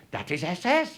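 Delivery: mock German alarm; "That is S S" said with a German accent, rising; imitating German friend. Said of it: "Wurster sliding under the table going".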